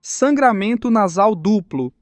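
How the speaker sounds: slow, teasing singsong; slow mocking taunt. Teasing rival mocks her bloody nose, slow sneer. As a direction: draw it out slowly to mock her. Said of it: "mostra a língua provocando".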